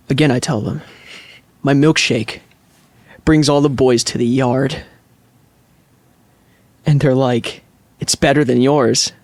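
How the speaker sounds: lightly overdone dramatic recital of song lyrics; dramatic reading. Acted. The speaker reciting a singer's lyrics to friends as mock drama. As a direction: read the lyrics like a serious actor, with long pauses. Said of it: "dramatically read it".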